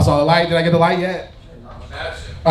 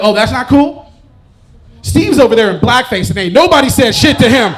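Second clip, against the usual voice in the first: indignant retort; 3 semitones higher, 6 dB louder than usual. Retold or imitated. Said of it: "I was like".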